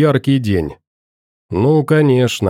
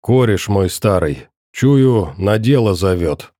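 put-on lower, hoarse drunken rasp; hoarse wheeze; 4 semitones lower than usual. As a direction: rasp it out, half-voiced. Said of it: "просипеть".

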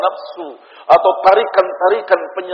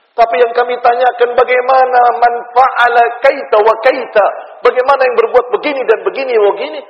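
raised, high-pitched sermon questioning; insistent preaching; 7 semitones higher, 4 dB louder than usual. Acted. Preacher relaying companions' question to the Prophet, insistent preaching. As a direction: press the question urgently in a higher voice.

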